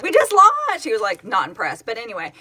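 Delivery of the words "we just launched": high, loud and thrilled; excited. Retold or imitated. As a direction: squeal it with delight. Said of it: "And I was like".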